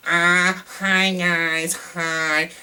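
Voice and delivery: high, whiny mocking of an actress; whiny accent imitation. Reviewer mocking the actress's annoying hyped accent, whiny. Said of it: "like, so whiny".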